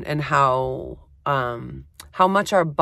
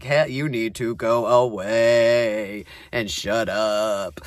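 other inner voice; 5 semitones lower, slower than usual. Retold or imitated. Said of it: "this other voice comes into my head".

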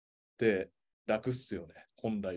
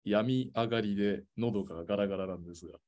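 raspy, hoarse throat after illness; faster than usual. Real, not acted. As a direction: speak through a scratchy sore throat.

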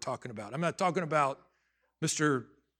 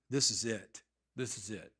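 resigned; 5 semitones lower, 6 dB quieter than usual. Retold or imitated. Retelling his giving-up moment.

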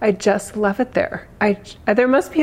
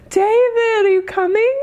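much higher and louder, thrilled; excited calling out; 13 semitones higher, 3 dB louder than usual. Real, not acted. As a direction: call out to him, delighted. Excited calling to viewer online.

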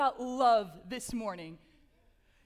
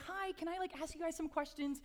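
tentative approach; 3 semitones higher, 6 dB quieter than usual. Retold or imitated. Speaker re-enacts interrupting people at lunch, tentative approach. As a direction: lightly act out approaching strangers with a small, soft voice.

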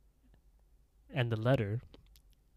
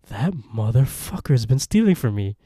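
louder, mildly furious dad; acted outrage; 7 dB louder than usual. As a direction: voice the dad's dawning anger. Dad's angry realization, acted out.

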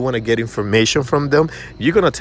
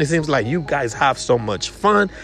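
high, bubbly party voice; imitating an upbeat party lover; excited summer type; 5 semitones higher than usual. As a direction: play the fun-loving customer. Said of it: "when you ask them".

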